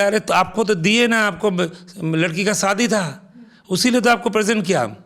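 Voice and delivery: brushing off his worry with energy; excited protest. Retold or imitated. Didi assuring the peon the diamond set was his.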